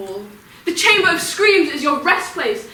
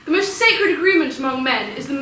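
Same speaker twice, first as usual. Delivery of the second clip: raised, indignant argument; outraged challenge; 4 semitones higher, 4 dB louder than usual. Acted. Apollo disputing the Furies on marriage, outraged. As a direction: throw their logic back, loud and high.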